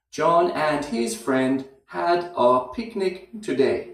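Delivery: slowly, with a pause after friend and a weak had a; slow practice take. Shown as a demonstration. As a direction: spell out the rhythm for learners to copy. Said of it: "after friend, there's a little pause".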